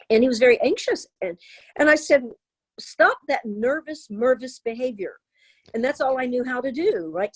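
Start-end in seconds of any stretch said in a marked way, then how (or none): 2.8-5.1 retold scolding. Mother scolding her anxious son, retold.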